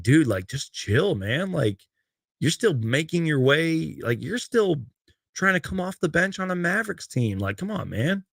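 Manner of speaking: just chill, come on man; exasperated. Real, not acted. Exasperated plea to a scuffling player.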